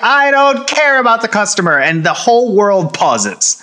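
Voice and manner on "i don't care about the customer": lightly voiced grumpy squid; a hint of bored Squidward. Squidward brushing off SpongeBob, lightly voiced grumpy. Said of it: "And Squidward's like".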